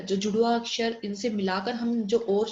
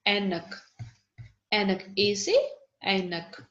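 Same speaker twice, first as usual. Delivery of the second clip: slow sounding out; 3 semitones lower, much slower than usual. Shown as a demonstration. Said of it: "teacher sounding out".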